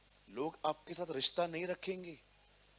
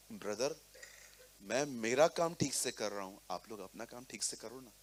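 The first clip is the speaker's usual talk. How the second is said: calm brotherly tone; 5 semitones lower than usual. Retold or imitated. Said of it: "ऐसी लहजे में, इसी tone में".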